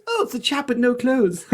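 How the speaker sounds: high-pitched royal lady impression with laughter; Camilla. Camilla spots the chap with no clothes, high imitated voice. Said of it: "looks at me and she goes".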